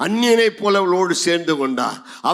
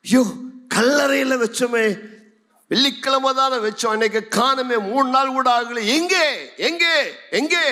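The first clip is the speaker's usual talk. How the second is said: higher, anxious cries of a searcher; mildly frantic, calling out higher; distressed searching; 6 semitones higher than usual. Acted. Mary searching the empty tomb, distressed.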